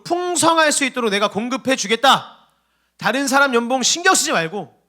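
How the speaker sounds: high, ringing promise in God's words; emphatic proclamation. Acted. God promising provision to his people, emphatic proclamation. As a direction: proclaim it firmly, pitched well up.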